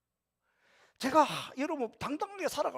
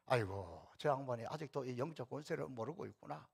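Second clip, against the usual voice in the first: pitying sigh; 7 semitones lower, 9 dB quieter than usual. Pretend. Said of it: "별로 그런 것 때문에 요동치지 않아요".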